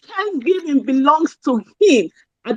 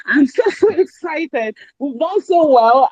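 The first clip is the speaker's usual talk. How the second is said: real excitement; 3 semitones higher, slower than usual. Real, not acted. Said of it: "You can hear it from my voice".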